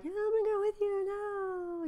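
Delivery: high, fast, offhand mock promise; Stewart voice. Orpah mocking her own promise to Naomi, high and quick. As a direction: toss off a fake yes then drop it. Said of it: "like in the Stewart voice or something".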